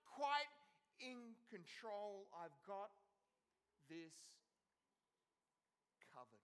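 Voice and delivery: a lightly voiced God promising he's got this; God reassuring. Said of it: "he's saying".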